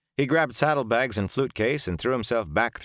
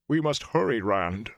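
higher-pitched urging, dropping on the name; urgent plea; 3 semitones higher than usual. A narrator's reading. Ogier to Rand as the ceiling cracks, urgent. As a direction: press him to hurry.

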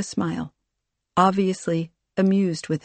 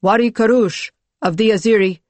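raised, higher formal herald's call; loud announcement; 4 semitones higher, 7 dB louder than usual. A narrator's reading. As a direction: announce the guest loudly to the room. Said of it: "one of the envoys spoke loudly".

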